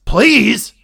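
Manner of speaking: sharp, high, loud disbelief; incredulous please. Acted. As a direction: throw the word back in disbelief. Logan's incredulous retort, acted.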